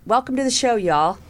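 a quick Southern twang on the welcome; Southern accent. Real, not acted. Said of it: "my Southern accent jumped in there".

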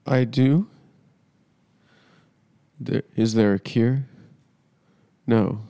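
talking to unseen doctor; hammed-up dramatic phone call. One-sided phone call with doctor.

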